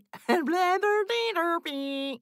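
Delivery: mechanical robot transforming noise; Transformer noise. Shown as a demonstration. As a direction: make a whirring Transformer sound. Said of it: "That's my Transformer noise".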